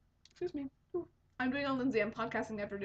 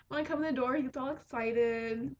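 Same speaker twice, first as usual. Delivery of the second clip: ordinary talk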